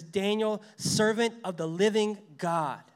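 anguished call. Retold or imitated. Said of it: "in an anguished voice".

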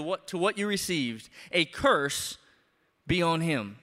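measured, formal reading of the epistle; scripture reading. Acted. Pastor reads Galatians aloud to the church, formal reading. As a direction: read it out to the congregation with weight.

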